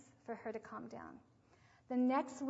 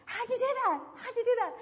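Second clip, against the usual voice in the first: higher, louder amazed question; 13 semitones higher, 8 dB louder than usual. Retold or imitated. The mom asks the caregiver, astonished and louder. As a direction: ask it in disbelief.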